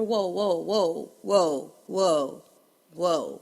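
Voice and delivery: deep, loud string of whoas; low, punchy whoa after whoa; man shutting down gossip. Retold or imitated. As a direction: imitate a man calling a halt. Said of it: "men, just remember".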